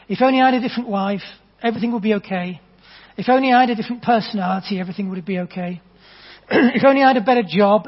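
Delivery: P=A; mock complaining. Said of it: "this is what he says to me".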